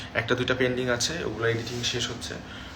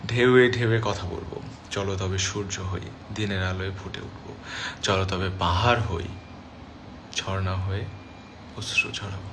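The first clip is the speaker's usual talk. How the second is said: drama dialogue; 3 semitones lower than usual. Shown as a demonstration. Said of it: "আমার একটা নাটকের dialogue এটা".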